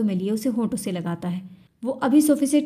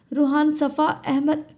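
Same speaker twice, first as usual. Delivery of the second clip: crying plea; 6 semitones higher, slower than usual. Acted. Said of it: "Kashaf मुसलसल रोते हुए कहती है".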